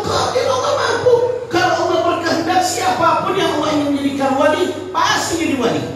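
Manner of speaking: ringing certain answer; emphatic sheikh. Acted. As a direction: proclaim God's power with conviction.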